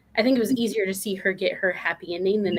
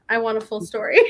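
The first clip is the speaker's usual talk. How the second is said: laughing. Real, not acted. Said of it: "laughing demand".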